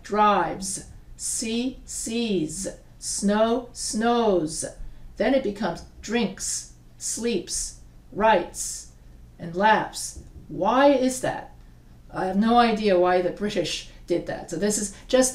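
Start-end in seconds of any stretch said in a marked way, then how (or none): 5.2-10.2 "sleeps" ending on a crisp S; S ending demo. Shown as a demonstration. Teacher models the S sound. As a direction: hiss the final S in "sleeps" "writes" "laughs". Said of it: "you add like a S sound".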